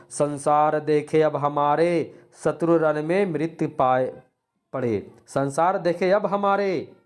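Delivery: declaimed verse with a touch of anger; wrathful verse recital. Shown as a demonstration. Teacher reciting an example of Raudra rasa, mildly wrathful. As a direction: stretch the words in mild, declaimed wrath. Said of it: "ये क्रोध का भाव है".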